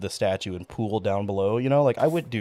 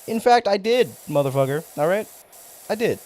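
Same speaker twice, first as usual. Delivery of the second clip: higher and louder, half-joking rant; indignant shout; 7 semitones higher, 4 dB louder than usual. Real, not acted. Streamer snapping back at a viewer who missed his stream, indignant shout. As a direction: yell it back at the chat.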